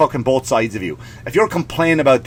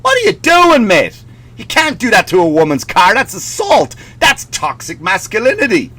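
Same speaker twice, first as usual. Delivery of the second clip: mock outrage; 4 semitones higher than usual. Mock listeners scolding Bruno.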